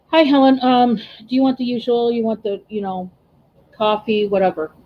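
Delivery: flat, bored "Hi, Helen", just getting it over with; mumbled routine greeting, no eye contact; bored, going through motions. Retold or imitated. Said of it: "this is how I used to wait on her".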